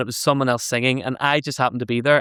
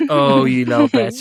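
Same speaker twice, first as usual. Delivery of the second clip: high, slow indignant drawl; mock outrage; 10 semitones higher, 3 dB louder, slower than usual. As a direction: play at being offended.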